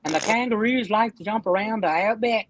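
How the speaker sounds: mock Australian accent; Sam. Teasing an opponent as an Australian, fake accent. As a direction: put on a rough Australian accent. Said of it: "putting on an Australian accent".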